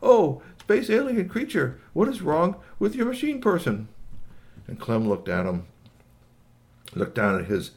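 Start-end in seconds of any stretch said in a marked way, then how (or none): 0.0-3.9 high, stretched-out alien speech; translated alien voice. Acted. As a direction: inquire as a concerned space creature. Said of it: "he said through his communicabobulator".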